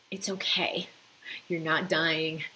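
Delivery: whispered comfort; reassuring whisper. Shown as a demonstration. Calming the body's fear response, whispered reassurance. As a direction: hush the panicking body gently. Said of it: "remind this part of you".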